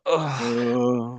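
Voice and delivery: long, drawn-out "ugh"; disgusted groan. Retold or imitated. Podcaster reacting to Miss Fellatio, disgusted groan.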